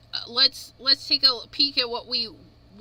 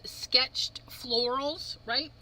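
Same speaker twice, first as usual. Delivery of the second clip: whispering; 7 dB quieter, much slower than usual. Real, not acted. Whispers the stamp's name.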